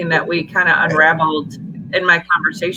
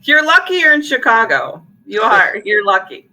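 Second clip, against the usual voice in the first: mock threat; 3 semitones higher, 4 dB louder than usual. Mock threat after insult.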